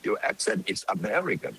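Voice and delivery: slow, high, showy English with a put-on foreign accent; affected English accent. Shown as a demonstration. Showing off an affected foreign accent to impress listeners with English. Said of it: "ผมก็ดัดจริตนะ".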